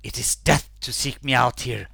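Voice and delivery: eerie ghost voice from beyond; menacing spectral warning; dark lord. Acted. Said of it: "She speaks to you as she appears".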